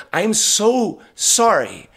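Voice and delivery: slow, high-pitched, drawn-out apology; acting out a heartfelt sorry. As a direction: stretch it out as an earnest apology. Retold apology while hugging the man.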